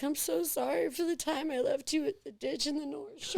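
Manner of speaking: a hint of drunk sobbing, mostly laughing; laughing mock apology. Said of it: "start crying at the bar and be like".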